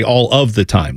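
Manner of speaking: "all of the time" with "of" fully sounded; full phrasing. Shown as a demonstration. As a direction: say every word in "All of the time", low. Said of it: "I would add in the "of".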